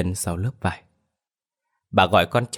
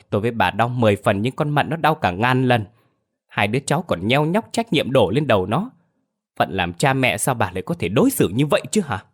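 angry scolding husband; 3 semitones higher than usual. Acted. Husband scolds wife over their dead son, angry and pleading. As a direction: scold her, voice rising with grief.

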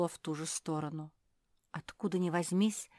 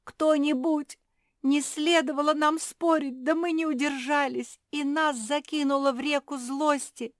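much higher, louder, panicked wailing; desperate crying out; 10 semitones higher, 7 dB louder than usual. A narrator's reading. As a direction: call out helplessly from the icy water. Kuki crying out in river.

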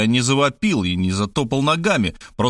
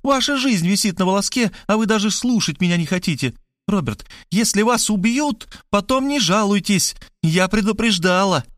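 higher, raised warning; exasperated cry; 9 semitones higher than usual. A narrator's reading. Markhaleva scolding Robert who will not listen, higher exasperated cry. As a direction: cry it out, fed up with him. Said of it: "закричала Мархалёва".

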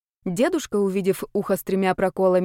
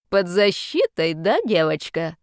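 displeased; slower than usual. Acted. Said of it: "спросил он недовольно".

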